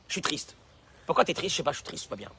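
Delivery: softly, sunk and listless; mock mopey. Preacher mimicking a gloomy person who says he feels unwell, soft and low. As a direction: mope like nothing can cheer you. Voicing a sad complainer.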